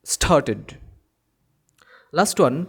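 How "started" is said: "started" with the e sounded; ED as full syllable. Shown as a demonstration. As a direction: say "started" as star-ted. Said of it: "তখন কিন্তু ই কে আমার উচ্চারণ করতে হবে".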